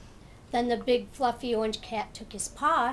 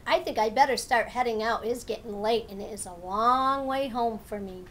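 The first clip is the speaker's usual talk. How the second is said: a louder, lightly voiced turtle; 5 dB louder than usual. Turtle tells friends he must head home, lightly voiced. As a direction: tell friends it's time to go.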